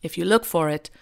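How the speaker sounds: put-on light, wobbly British accent, reading a speech; mock British accent, half-hearted, reading on; lightly put-on British accent of a prime minister speech; terrible Hugh Grant British accent. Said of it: "Excuse my terrible Hugh Grant slash shitty impersonation".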